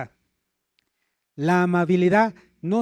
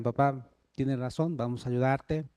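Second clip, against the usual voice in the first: a touch lower, humble and sincere; humble agreement; 4 semitones lower than usual. Shown as a demonstration. Children answering scolding parents, humble and sincere. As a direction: answer your father respectfully. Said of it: "que los hijos digan".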